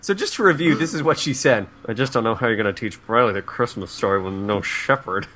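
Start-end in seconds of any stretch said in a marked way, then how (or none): 1.9-5.3 lower, hushed put-upon grandma voice; mock murmur. Shown as a demonstration. Columnist guilt-tripping her daughter, low hushed murmur. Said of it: "I murmured".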